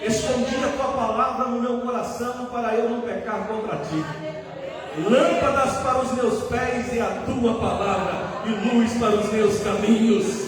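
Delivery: loud, projected preacher's recitation; forceful scripture recitation. Real, not acted. Preacher reciting the Word as his sword, loud and forceful. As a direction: proclaim the verse out to the whole church.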